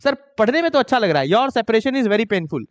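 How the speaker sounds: teacher mimicking students who trust feel over grammar, mock voice. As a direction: play the student defending his bad English, lightly. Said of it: "ऐसा ही होता है".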